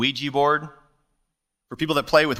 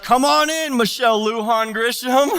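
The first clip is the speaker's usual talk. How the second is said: much higher and louder, gleeful welcome; mock cheery welcome; 8 semitones higher, 5 dB louder than usual. Preacher jokingly welcomes the governor in. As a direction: throw the door open with glee. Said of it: "open the door and be like".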